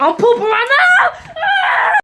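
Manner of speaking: high, loud drawn-out yell; shrieked announcement. Real, not acted. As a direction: holler it, ending in a scream. Yells out from the bathroom.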